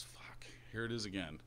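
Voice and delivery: half-whispered, under the breath; hushed aside. Acted. Pub customer cursing to himself over a sign, hushed aside. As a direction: whisper it to yourself. Joke character mutters at sight of sign.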